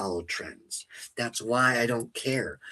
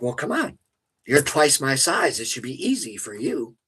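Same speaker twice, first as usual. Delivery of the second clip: mocking taunt; 4 semitones higher than usual. To the neighbour twice his size, a high mocking dare. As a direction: goad the big guy into swinging, mockingly.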